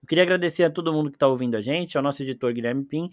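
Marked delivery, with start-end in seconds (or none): none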